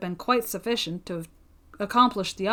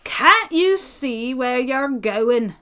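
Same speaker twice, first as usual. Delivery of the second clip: angry scolding; 3 semitones higher, 7 dB louder, much slower than usual. A narrator's reading. New arrival scolds the boy.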